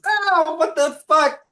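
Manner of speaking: loud, high outraged yelp; shouting druid. Acted. Bitten druid yells in outrage. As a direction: yelp it out as a druid with no animal handling. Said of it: "one of them goes".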